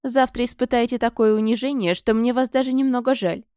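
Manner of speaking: haughty mock pity; contemptuous. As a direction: look down on her with pity. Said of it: "презрительно поморщилась".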